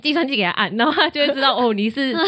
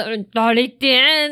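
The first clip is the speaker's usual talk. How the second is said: gruff masseur; 4 dB louder, much slower than usual. Retold or imitated. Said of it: "而且他很凶".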